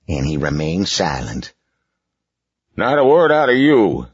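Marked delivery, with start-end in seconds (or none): 2.8-4.1 loud, higher snapped order; snapping. Acted. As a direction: snap at the boy. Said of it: "snapped the boss".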